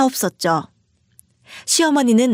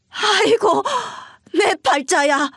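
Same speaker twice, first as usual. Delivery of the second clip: much higher crying wail over her fate; wailing lament; 8 semitones higher than usual. Acted. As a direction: wail as if about to collapse. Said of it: "곧 쓰러질 듯 소리쳤어요".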